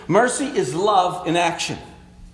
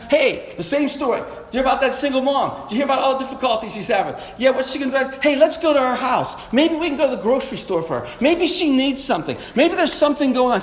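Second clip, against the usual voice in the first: compassion voice; 3 semitones higher, faster than usual. Shown as a demonstration.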